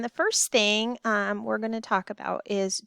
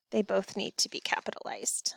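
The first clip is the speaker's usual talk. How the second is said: soft aside; 6 dB quieter than usual. Real, not acted.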